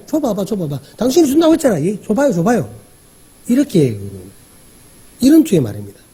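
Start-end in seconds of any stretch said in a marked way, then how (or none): 0.1-2.7 mock challenging tone, 줘봐봐 pushed out like a complaint; lightly acted woman calling his bluff; arguing demand. Woman demanding the promised water from Jesus, half-mock arguing. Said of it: "따지듯 얘기하는 거예요".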